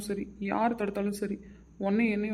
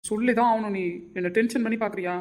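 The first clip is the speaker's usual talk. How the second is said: angry demand; 4 dB louder than usual. Acted. Husband demanding the truth.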